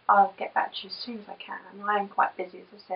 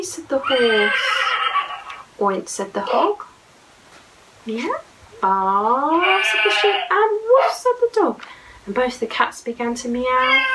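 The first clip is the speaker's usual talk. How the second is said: lively storybook reading, sing-song; reading to children; 2 semitones higher than usual. Acted. Mum reading a picture book aloud to her little boy, lively. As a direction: read it like a bedtime picture book.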